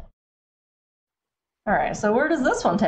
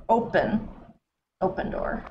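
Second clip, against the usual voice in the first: whispered; 5 dB quieter than usual. Real, not acted. Whispered command to game.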